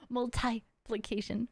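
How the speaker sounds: "Multiplication" slowly as mul-tie-plication; multi as MUL-tie. Shown as a demonstration. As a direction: draw out "Multiplication", breaking it after tie. Spells out the odd pronunciation.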